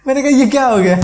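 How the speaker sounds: real laughter in the voice; laughing. Real, not acted. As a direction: ask it while cracking up. Laughing at absurd situation.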